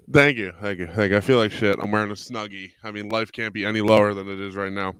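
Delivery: low, croaky robot-like voice; weird low voice. Real, not acted. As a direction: drop into a strange low voice. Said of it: "doing that weird low voice thing".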